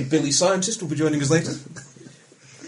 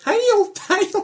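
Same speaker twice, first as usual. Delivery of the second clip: high mock cry for help; 6 dB louder than usual. Mock victim calling for help.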